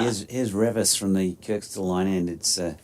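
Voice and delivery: calm radio play-by-play; live commentary. Acted. Commentator resuming the over on air, steady play-by-play. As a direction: call the delivery for listeners.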